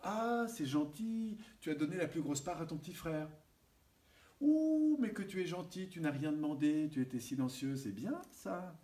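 put-on mother praising her silent child, doting and sing-song. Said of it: "maman, elle me dit régulièrement".

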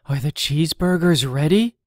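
loud, fast, eager ask; can hardly wait for the food; eager question. Acted. Grub eagerly asks Seed about cheeseburgers, loud and fast.

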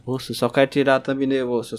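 ordinary talk, nothing marked

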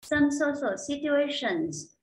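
slow, careful English reading; textbook read-aloud. Acted. Teacher reads the lesson passage aloud for students. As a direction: read it clearly for learners to follow.

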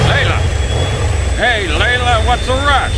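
high, loud, frantic squirrel shout; frantic twitchy squirrel. Acted. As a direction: yell after the owl in a panic. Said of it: "That stupid squirrel is all like".

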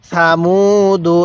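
সামুদু drawn out slowly syllable by syllable; slow recitation demo. Shown as a demonstration. Teacher slowly models সামুদু for students. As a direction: read সামুদু slowly and evenly. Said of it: "পড়ুন".

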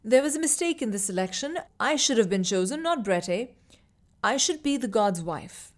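put-on mildly shaky girl rushing her claim; nervous insistence. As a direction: blurt it before courage fails. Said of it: "Riva said shakily".

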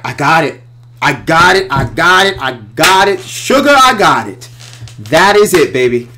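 loud, high, thrilled repeating; bursting with the discovery; excited. Retold or imitated. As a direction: jubilant shouting with a high squeal on sugar. Retelling excitement at the idea.

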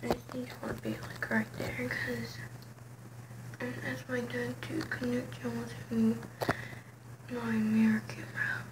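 whispering. Real, not acted. Whispering while setting up camera.

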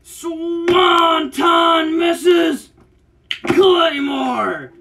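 excited wrestling commentary with shouted moves; hyped-up ringside play-by-play; live play-by-play. Acted. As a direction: call every move like a ringside commentator. Calls the match live.

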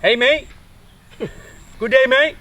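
put-on Australian accent. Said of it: "ต้องทำเสียงแบบออสเตรเลียนหน่อยดิ".

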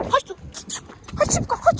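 high, urgent call from far off; calling from far away. Real, not acted. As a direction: call the dog back in a panic. Car coming, calling dog.

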